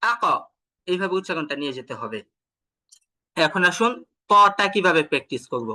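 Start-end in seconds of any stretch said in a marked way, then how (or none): 0.0-0.2 আক with the final q bounced upward; upward qalqalah. Shown as a demonstration. Teacher directs the sound upward, আক ending in a raised bounce. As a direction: push the echo of the q in আক upward. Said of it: "একদম উপরের দিকে".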